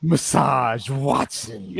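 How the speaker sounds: laughing slow drawl. Real, not acted. Savoring a villain nickname.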